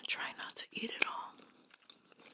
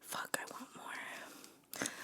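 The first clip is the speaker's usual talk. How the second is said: whispering; 3 dB quieter, much slower than usual. Real, not acted. Whispered craving then voiced.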